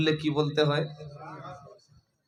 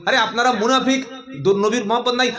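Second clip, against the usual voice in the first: fast, raised scolding; mock-angry preacher; 4 semitones higher than usual. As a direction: scold the congregation like an irritated preacher. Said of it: "বক্তা রেগে গিয়ে বলছে".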